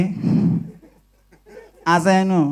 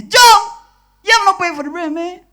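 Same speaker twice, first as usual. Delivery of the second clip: shouting after a thief; 8 semitones higher than usual. Acted. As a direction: yell after him to pay for the bread. Store guard calling out thief.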